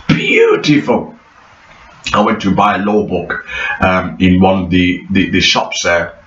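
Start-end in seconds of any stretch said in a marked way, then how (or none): 0.1-1.1 gushing praise. Real, not acted. Repeats it much higher.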